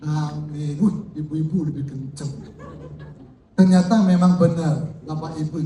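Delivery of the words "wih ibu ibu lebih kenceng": laughing. Real, not acted. Laughs at wives' loud amen.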